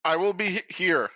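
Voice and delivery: on the verge of tears. Acted. Claiming the workshop and lookout, mildly tearful. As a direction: hold back happy tears, pitch a little up. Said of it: "Are you crying?".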